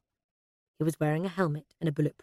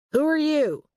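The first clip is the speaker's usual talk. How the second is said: loud, high demand; sharp challenge; 10 semitones higher, 6 dB louder than usual. A narrator's reading. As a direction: challenge a stranger forcefully. Frowning agent challenges a stranger.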